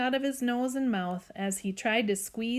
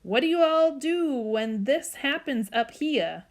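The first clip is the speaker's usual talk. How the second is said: higher Southern mama voice; worried Southern accent; 5 semitones higher, 4 dB louder than usual. Acted. Mama asks Dad what to do, worried Southern accent. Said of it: "started talking Southern style when she got worried".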